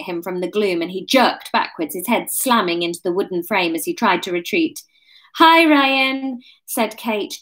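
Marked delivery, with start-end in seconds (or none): 5.4-6.4 higher, louder attempt at casual; trying to sound casual; forced casual. A narrator's reading. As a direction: greet him with strained nonchalance. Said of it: "trying to sound casual".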